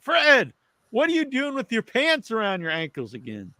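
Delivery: scolding nurse. Retold or imitated.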